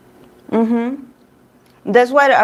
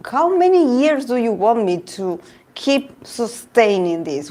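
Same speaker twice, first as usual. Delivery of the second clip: higher-pitched pleading quote; imitated desperation; 4 semitones higher than usual. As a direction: plead like someone worn down, lightly acted. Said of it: "the desperation in him".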